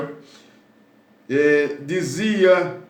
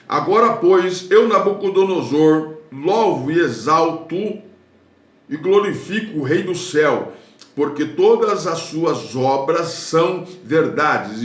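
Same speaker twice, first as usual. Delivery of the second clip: voicing King Nabucodonosor. Preacher voicing Nabucodonosor praising the King of heaven, declaiming. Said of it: "Isso é Nabucodonosor falando".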